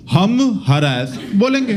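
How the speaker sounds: slow, defiant mock American; stubborn Americans. Americans defying the British, slow and defiant. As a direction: declare it slowly, stubbornly. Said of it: "Americans कहते हैं".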